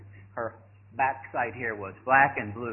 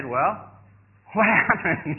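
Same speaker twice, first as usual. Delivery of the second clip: slow, open-mouthed astonishment; mock-stunned, drawn-out question; dumbfounded; 4 semitones higher, 4 dB louder, much slower than usual. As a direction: ask it slowly with jaw hanging. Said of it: "my mouth's hanging open".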